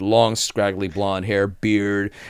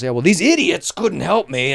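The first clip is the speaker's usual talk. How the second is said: higher, slow, exaggerated complaint; mock indignant guest; 8 semitones higher, 3 dB louder, slower than usual. Guest complaining on the phone about staff, mock indignation.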